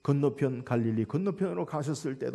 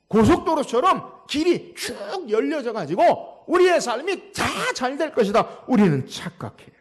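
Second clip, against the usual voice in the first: raised, projected pulpit voice; high-energy sermon delivery; emphatic preaching; 6 semitones higher, 6 dB louder than usual. Real, not acted. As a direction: stretch the sweeping words as you preach. Preaches at full force.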